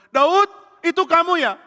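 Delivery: high, slow, loud holler; stretched, questioning call. Acted. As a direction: shout to someone far off. Saul memanggil Daud dari jauh.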